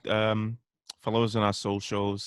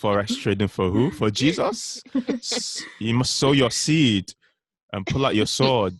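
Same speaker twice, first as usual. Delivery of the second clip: mock preacher; 2 semitones higher than usual. Mock preacher rebuking the Forex trader.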